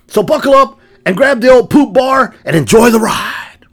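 slow mock whisper, breath only; whispered sign-off. Co-host closing the show intro with a slow, teasing whisper. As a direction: lean in and whisper the invitation slowly.

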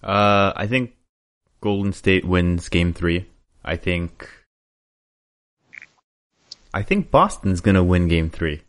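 hesitant, halting guess with long pauses; tentative prediction. Real, not acted. Podcast guest put on the spot for a prediction, tentative. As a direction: ease into the prediction without conviction. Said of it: "you gotta have a little bass in your voice when you're making a prediction".

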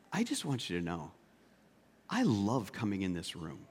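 quietly sincere, as a nurse confiding in a patient; gently voiced heartfelt words; heartfelt aside.

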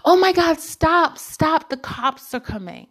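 a girl shouting at her friends to run from the cops, mock panic; mock panicked girl. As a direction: imitate a frightened girl calling out. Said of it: "her group of friends running".

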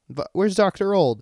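imitating Josh. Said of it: "he goes".

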